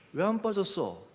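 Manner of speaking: mildly pondering, retold question. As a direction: ask it again as if thinking it through. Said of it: "그리고 생각하는 거죠". (곱씹어 생각하듯 묻기)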